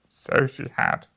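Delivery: put-on old Scrooge crying out. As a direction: exclaim it with feeling. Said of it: "cried Scrooge".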